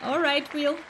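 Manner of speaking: a horrendous mock British accent. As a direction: ham up a bad British accent, just for funsies. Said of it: "It is a British accent".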